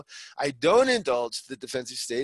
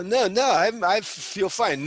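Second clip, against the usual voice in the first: higher and louder, then slow; protesting denial; 4 semitones higher, 4 dB louder, slower than usual. Acted. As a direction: push back, then slow down to insist. Acted quarrel, partner protesting.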